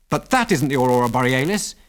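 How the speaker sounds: firm, emphatic contradiction; emphatic cry. A narrator's reading. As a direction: object with emphasis. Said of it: "he cried emphatically".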